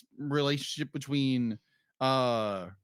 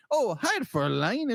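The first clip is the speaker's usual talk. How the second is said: higher-pitched flirty greeting; Nightcrawler; 6 semitones higher than usual. Retold or imitated. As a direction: imitate an overeager flirt. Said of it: "his approach is like".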